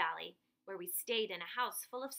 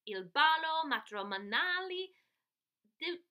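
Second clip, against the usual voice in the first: louder, lightly chirpy bird announcer; twittering bird; 5 semitones higher, 7 dB louder than usual. Acted. Girl in bird mask introducing parents, light twittering. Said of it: "I twittered".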